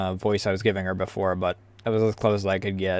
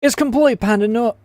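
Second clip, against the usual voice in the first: orc voice attempt; 10 semitones higher than usual. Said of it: "gotta get in the orc mindset".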